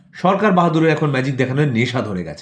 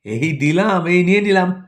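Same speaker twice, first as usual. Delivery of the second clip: much higher, teasing conjurer's cry; snatch back the gift with a magician's flourish; sly showman vanishing the handouts; mocking magician government; 7 semitones higher than usual. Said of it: "পরের খেলা".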